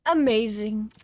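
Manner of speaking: loud hammed-up exclamation; big, drawn-out character praise; game character voice. Game character praising what was picked up, loud and effusive. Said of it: "the fucking voice that I was doing for him".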